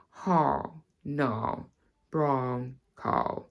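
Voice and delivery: the typical practice phrase in RP; RP accent. Shown as a demonstration. Teacher introducing the typical RP phrase, RP accent. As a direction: RP vowels, open 'Ha, na' for how, now. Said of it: "so we're going to do a phrase".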